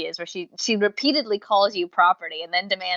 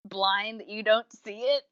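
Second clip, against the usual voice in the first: slow, pointed disbelief; a mildly sarcastic, slowed-down comeback; exasperated retort; 3 dB louder, slower than usual. Retold or imitated. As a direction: drag it out like it's painfully obvious. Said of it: "I'm like".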